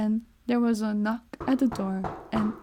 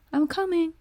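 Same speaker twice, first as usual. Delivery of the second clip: high called reply; calling out; 7 semitones higher than usual. Acted. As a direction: call down from above. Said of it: "she called".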